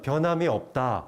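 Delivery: ordinary talk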